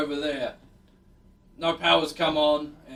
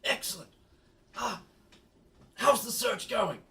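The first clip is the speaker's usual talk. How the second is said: slightly higher, halting trapped park boss; lightly voiced official, a touch higher; Neil; 5 semitones higher, 4 dB quieter than usual. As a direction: greet the adventurers through the door in short bursts.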